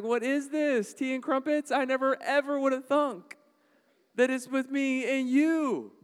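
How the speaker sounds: high, loud mock posh lady at high tea.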